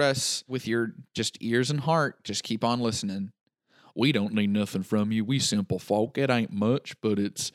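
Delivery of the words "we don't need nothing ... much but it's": country voice. Pretend. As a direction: play a humble country farmer. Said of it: "Do country voice".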